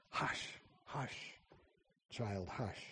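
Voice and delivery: a soft, breathy whispered shush; calm her down in a whisper; hushing whisper. A narrator's reading. Jesus hushes her, finger to lips.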